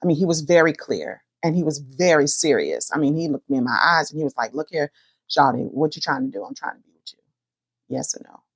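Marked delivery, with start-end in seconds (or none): 4.5-8.4 exaggerated street talk. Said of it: "he didn't say it like that".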